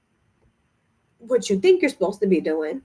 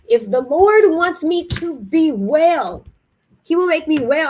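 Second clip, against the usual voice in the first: earnest declaration; 4 semitones higher, 5 dB louder than usual. Real, not acted. Declaring faith.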